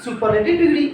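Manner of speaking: very slow, word by word definition; slow dictation. Shown as a demonstration. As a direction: read it out slowly so they can write. Reads an English definition slowly.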